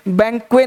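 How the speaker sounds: बैंक्वे with a missing final T; wrong pronunciation. Shown as a demonstration. Teacher warns students off this form, mispronounced without T. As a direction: end बैंक्वे on the vowel, T silent. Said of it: "नहीं बोलना है".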